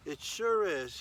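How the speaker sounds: a sulky prophet answering God back; defiant retort. Acted. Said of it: "he said".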